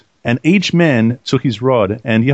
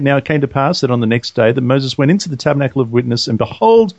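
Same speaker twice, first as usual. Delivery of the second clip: measured reading growing slower and more emphatic; scripture reading, building; 3 semitones higher than usual. Acted. Co-host reads out the budding rod miracle, slowing with emphasis.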